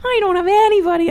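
high, whiny imitation of sobbing; mock crying. Bully crying to Lisa, high mock crying. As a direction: put on a pitiful high wail. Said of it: "cries to Lisa and he's like".

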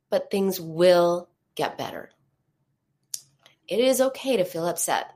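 gentle, soothing self-talk. Shown as a demonstration. Support group leader demonstrating soothing self-talk, gentle and reassuring. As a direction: say it kindly to yourself, reassuring. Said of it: "This is what soothing sounds like".

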